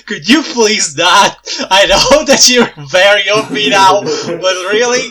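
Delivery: slow, half-laughing complaint; exasperated laughing plea. Real, not acted. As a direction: plead through laughter.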